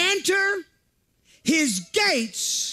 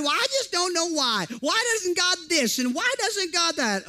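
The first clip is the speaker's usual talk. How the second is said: whiny complainer; 5 semitones higher than usual. Retold or imitated.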